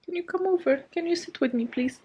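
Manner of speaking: high, soft plea to the cat; pet talk. Real, not acted. Asking her cat Zeus to sit with her, high soft plea. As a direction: coax the cat over, softly and high.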